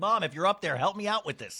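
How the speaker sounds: ordinary talk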